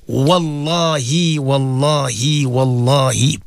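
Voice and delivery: very slow, sinking wallahis; slow solemn oath. Real, not acted. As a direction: swear it slowly and earnestly. Closing oath to listeners.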